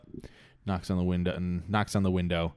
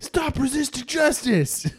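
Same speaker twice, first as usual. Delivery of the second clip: mock cop order; slower than usual. Mock cop yelling at Brian.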